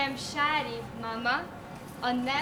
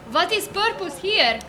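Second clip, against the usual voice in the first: put-on Hungarian accent; 3 semitones higher than usual. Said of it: "I can't endure you as Zsa Zsa".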